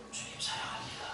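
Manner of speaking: barely audible whisper; mosquito-small voice. Retold or imitated. Ashamed Peter whispering his love to Jesus, barely audible. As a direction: breathe it out, ashamed. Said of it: "모기만한 목소리로".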